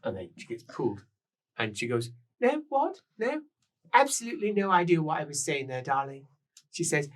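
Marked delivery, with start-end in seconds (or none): 2.4-6.3 shrill tipsy woman. Acted. Rouged woman on the stairs gushing at the guests, high and loud. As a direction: gush it like a tipsy lady of the house. Woman flustered after being pulled.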